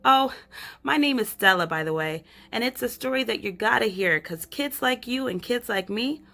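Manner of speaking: put-on chatty, bright girl's storytelling voice; lively Stella, a shrinking girl talking to the reader. Girl narrator calling up to the reader, chatty. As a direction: pull the reader in like a kid telling a secret. Reads Stella's lines to the listener.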